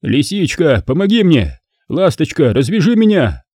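loudly coaxing. Acted. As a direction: sweet-talk her down, lightly voiced. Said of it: "и громко продолжил".

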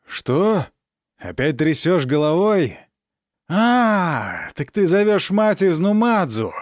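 high, loud furious outburst; fury boiling over at the child; enraged shout. Acted. Count rages at his defiant daughter, high and loud.

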